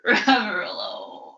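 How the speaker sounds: whispered and tearful; broken whisper of self-pity; drunken sob whisper. Acted. Drunk pirate mourns to the crew, tearful whisper. Drunk Heb mopes after outburst.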